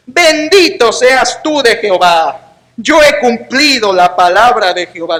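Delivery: slow, smug mock piety; hypocritical Saul. Preacher voicing Saul blessing the prophet, smug mock piety. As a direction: read it as a hypocrite would, slowly. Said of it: "qué hipócrita".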